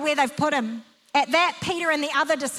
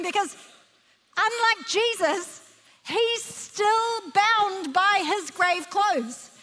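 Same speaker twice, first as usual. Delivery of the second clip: higher-pitched, vivid preacher's delivery; animated preaching; 5 semitones higher than usual. Real, not acted. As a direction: paint the scene with rising wonder. Preacher paints the scene animatedly.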